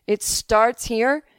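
put-on disbelieving pupil with an odd accent; Mark's unplaceable accent. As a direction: draw it out, lightly accented and incredulous. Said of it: "he had some accent".

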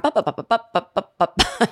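repeated "ba" jabber; mock yapping noise; chatterbox babble. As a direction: imitate endless chatter following you around.

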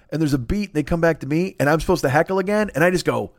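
normal talking voice

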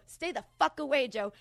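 loud, high threatening shout; pretend shout. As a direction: yell him off the front steps. Imagined confrontation, threatening Joe.

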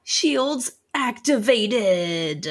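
slow, flat computer voice; robotic announcement. Acted. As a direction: announce it like a ship system. Player announces ability in-character.

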